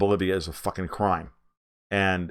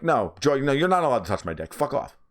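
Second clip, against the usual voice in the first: higher-pitched indignant refusal; mock telling-off; 5 semitones higher than usual. Imagining himself telling off a TV host, indignant. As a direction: cut them off in pretend outrage.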